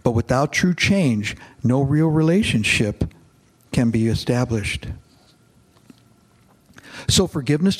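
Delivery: reads the novel aloud to his congregation, steadily; a pastor reading a novel passage to the church, in a narrating voice; story narration. A narrator's reading.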